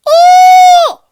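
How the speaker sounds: very high, loud whooping scream; imitating a strange scream in the dark; imitated piercing scream. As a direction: let out a wild piercing whoop. Scream heard behind him.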